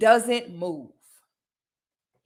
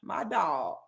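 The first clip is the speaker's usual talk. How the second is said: deflated aside; 9 semitones lower, 10 dB quieter, slower than usual. Retold or imitated. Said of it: "I'm like".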